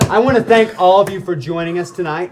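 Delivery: loud, laughing TV host sign-off; show host voice. Acted. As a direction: announce it like a game show host.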